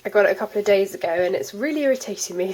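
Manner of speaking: stuffy voice from a cold; talking through a blocked nose. Real, not acted. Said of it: "if I sound a bit muffled".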